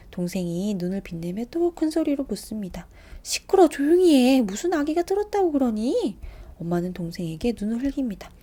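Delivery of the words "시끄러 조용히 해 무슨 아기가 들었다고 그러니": loud, high angry snap; sharp scolding. Acted. Mother silencing her son in the bath, loud angry snap. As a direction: cut the child off sharply.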